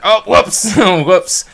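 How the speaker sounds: a sheepish "whoops" with a laugh; mock oops. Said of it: "So you're like".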